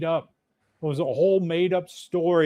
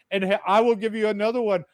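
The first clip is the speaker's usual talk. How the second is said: foreign priest cussing; 4 semitones higher than usual. Retold or imitated. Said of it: "He goes".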